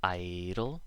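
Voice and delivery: "Idle" with a long "I" and a tapped D; "Idle" stressed on the first vowel; first-syllable stress. Shown as a demonstration. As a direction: stretch the start of "Idle", lighten the second syllable. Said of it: "for the same reason".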